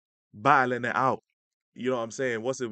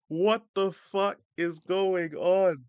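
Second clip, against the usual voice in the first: retold shock; 7 semitones higher, 4 dB louder, much slower than usual. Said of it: "my head snapped up like".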